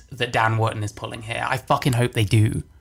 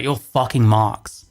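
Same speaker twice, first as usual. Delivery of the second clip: louder and slow, spitting each word; angry outburst; 6 dB louder, slower than usual. Real, not acted. Streamer berating those falling for it, slow angry outburst. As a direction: slam it at the viewers, slow and loud. Ranting at people fooled by edit.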